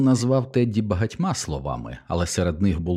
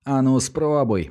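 higher, slower furious dare; raging taunt; 6 semitones higher, slower than usual. A narrator's reading. Teddy raging back at Milo, daring him. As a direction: spit the dare back in a rage. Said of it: "біснувався у відповідь Теді".

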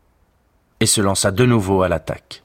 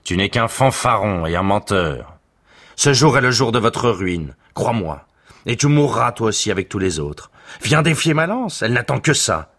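mildly raised, scornful threat; angry boast; 5 semitones higher than usual. Acted. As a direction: threaten him, a touch heated. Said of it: "cria Hector".

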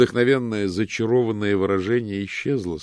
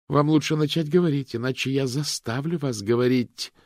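steely; 8 semitones higher, 6 dB louder than usual. A narrator's reading. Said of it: "Голос у Ханны был стальным, безжалостным".

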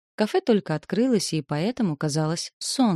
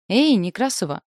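louder, higher hail; called out; 4 semitones higher, 5 dB louder than usual. A narrator's reading. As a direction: call across to a classmate. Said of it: "крикнул одногруппник Витя".

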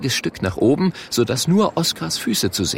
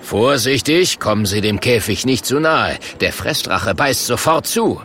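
showman's warning. Acted. Showman warning the customer at cage.

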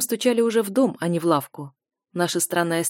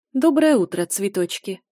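cheeky smile; 4 dB louder than usual. Acted. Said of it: "Главное, понаглее и улыбаться".

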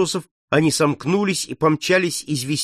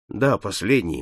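gloomy repeat; 5 semitones lower than usual. Acted. Paul insisting on his fate, gloomy. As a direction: repeat it darkly, unmoved. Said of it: "мрачно повторил Поль".

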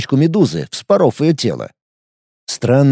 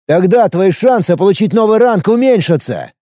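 mild shout; 6 semitones higher than usual. Acted. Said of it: "Снова заорал Алекс".

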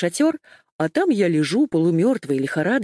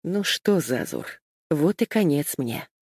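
hoarse; 2 semitones lower than usual. Acted. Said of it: "прохрипел старик".

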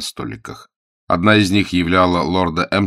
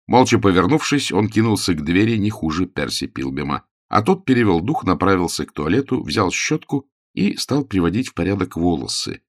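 ordinary delivery, nothing marked

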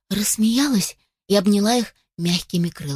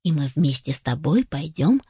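tender mother hen; 4 semitones lower than usual. Acted. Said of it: "ласково его погладила".

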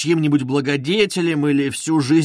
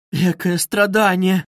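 a touch of a tormented wail, slow, higher and louder; anguished wail; 4 semitones higher, 4 dB louder than usual. Acted. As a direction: let the pain break out slowly. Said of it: "вырвался мучительный вопль у Сони". (мучительный вопль, медленно)

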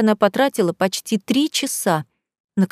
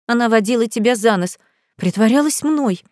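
squeaked; 2 semitones higher than usual. Acted. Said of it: "пискнула Ника".

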